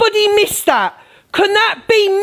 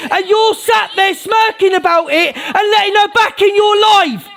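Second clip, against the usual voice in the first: real angry rant; 3 semitones higher than usual. Real, not acted. Ranting at viewers about clip.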